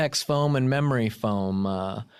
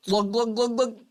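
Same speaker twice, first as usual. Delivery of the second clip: glug sounds; 7 semitones higher than usual. Pretend. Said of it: "a big sip of pee-pee".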